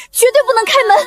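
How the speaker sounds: near tears, holding firm; on the edge of crying, insisting; tearful refusal. Acted. Terrified girl refusing to open. (带着哭腔坚决拒绝)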